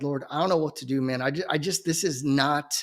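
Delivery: low, hushed, defeated plea to the Lord; despairing prayer to God. Retold or imitated. A grown man in the corner praying to God, low and hushed in despair. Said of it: "I'm shaking my head like".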